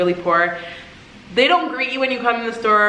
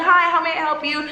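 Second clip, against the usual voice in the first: higher, eager-to-help greeting; imitated friendly vendor; 5 semitones higher than usual. Street vendor to customer, friendly imitation. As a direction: act out a welcoming seller offering more. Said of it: "people are so friendly".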